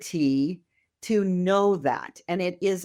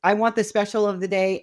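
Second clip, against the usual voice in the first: eager order; 3 semitones higher, 4 dB louder than usual. Retold or imitated.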